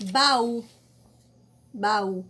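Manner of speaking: baú said loud with the stress on ú; loud demo word. Shown as a demonstration. Teacher to pupils, calling out baú loudly. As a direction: call out baú, hitting the final ú. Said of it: "A mesma coisa na palavra".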